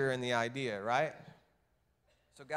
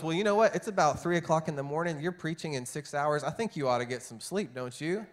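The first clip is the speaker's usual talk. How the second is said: teasing husband; 2 semitones higher than usual. Retold or imitated. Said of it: "he goes".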